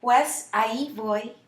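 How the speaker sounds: "Pues ahí voy" slowly, with the accent on the í of ahí; stress on AHÍ. Shown as a demonstration. Teacher pointing out the accent, stress on "ahí" in "Pues ahí voy". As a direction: lean on the end of "ahí". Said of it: "there's the accent on the ahí".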